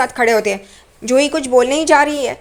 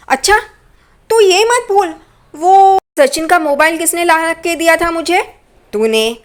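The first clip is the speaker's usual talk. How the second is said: mocking counter-threat; 4 semitones higher than usual. Villain turns threat back on her.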